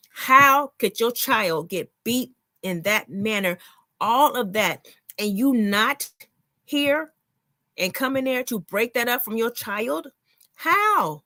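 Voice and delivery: indignant, with drawn-out emphatic words; angry. Real, not acted. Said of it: "it make me so angry".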